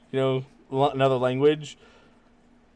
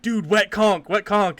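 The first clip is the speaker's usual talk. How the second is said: retold urgent call; 7 semitones higher, 4 dB louder than usual. Retold call to uncomprehending Brazilian player.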